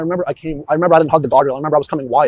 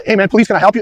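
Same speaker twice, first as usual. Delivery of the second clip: reenacted call-out; 6 semitones higher, 6 dB louder than usual. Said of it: "I want the volume of your voice to be the same".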